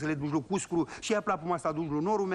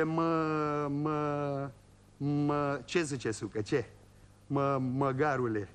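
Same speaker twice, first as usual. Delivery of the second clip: low, slow stutter on the first word before snapping out the insult; old man tripping over his words, then a mock insult; stuttering old peasant insulting the boy; stammering old man; 5 semitones lower, much slower than usual. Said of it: "moșul bâlbâi la vorbă".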